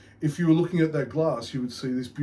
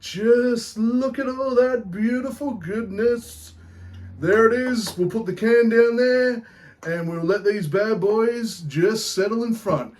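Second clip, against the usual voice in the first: put-on Irish accent; 7 semitones higher, slower than usual. Beer show host greets punters, hammed-up Irish accent. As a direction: put on a cheeky Irish brogue. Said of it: "keep this accent up".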